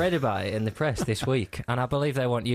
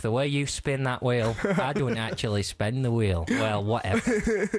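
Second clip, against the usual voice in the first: a touch of a gushing fan who trails off; mock fan gush. Mocking Abby Titmus praising a game show host, lightly voiced. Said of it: "mock quote of Abby".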